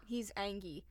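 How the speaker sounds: dramatic whisper. Real, not acted. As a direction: hush it like a secret. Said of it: "whispered dramatic aside".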